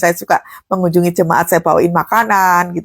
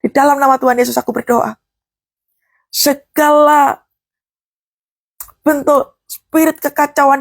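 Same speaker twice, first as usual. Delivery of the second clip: demonstrated prayer; 3 semitones higher than usual. Shown as a demonstration. Pastor shows the congregation how to pray, fervent. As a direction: pray it out, binding in Jesus' name. Preacher models a spoken prayer.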